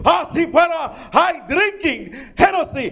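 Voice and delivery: put-on Julio in a light Spanish accent; hint of Spanish-accented friend. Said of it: "Yo, Julio".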